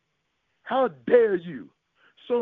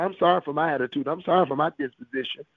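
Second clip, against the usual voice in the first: quick mock confession; faster than usual. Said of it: "Some of you tell God".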